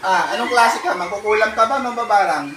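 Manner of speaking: name the witch to its face; accusing the spirit. Real, not acted.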